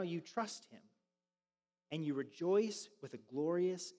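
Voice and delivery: slow, reverent reading with long pauses; meditative scripture reading. Real, not acted. Pastor reads scripture to congregation with eyes closed, slow and meditative. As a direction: read it slowly, letting each phrase settle. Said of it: "a little bit slower and a little bit more meditatively".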